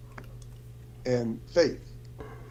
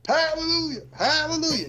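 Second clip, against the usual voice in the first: much higher, sung-out hallelujah in a mock Black accent; imitating a Black accent. Lady beside him at the revival tent, mock Black accent hallelujah. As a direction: mimic a churchgoing lady's Black-accented hallelujah. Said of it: "I'm saying it in sort of a black accent".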